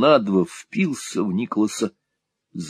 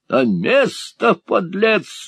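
high, loud, stretched-out bellow; high-pitched furious command; enraged yell; 12 semitones higher, 4 dB louder, much slower than usual. A narrator's reading. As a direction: yell it beside yourself with fury. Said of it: "завопил Сквирс вне себя от бешенства".

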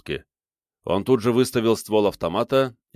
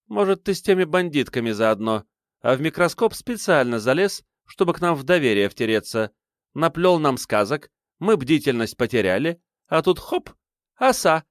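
a lightly voiced mother, higher, accusing; suspicious mother; 7 semitones higher than usual. A narrator's reading. Mother accusing her son of being a spy, lightly raised voice. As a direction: needle him with mounting suspicion.

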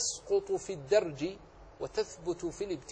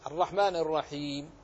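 careful stopping recitation; full stop. Shown as a demonstration. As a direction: pause fully after الرحيم before taking a breath. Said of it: "أن تقف".

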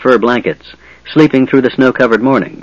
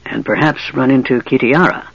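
sly whisper. Acted. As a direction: slip it in slyly under the breath. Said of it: "Raistlin whispered slyly".

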